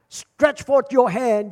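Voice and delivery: loud, slow, drawn-out command; ringing preacher's command, word by word; bold proclamation. Acted. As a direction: declare it slowly to the whole church.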